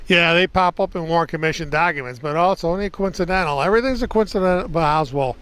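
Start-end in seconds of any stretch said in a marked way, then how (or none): 2.2-5.3 higher-pitched, quick sarcastic scoff; sarcastic dismissal. Real, not acted. Vlogger scoffing at the coincidence excuse, sarcastic. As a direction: dismiss it with rising exasperation.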